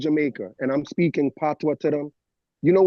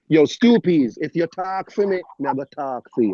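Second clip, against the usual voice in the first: Jamaican patois. Acted. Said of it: "How you go in and out of that language".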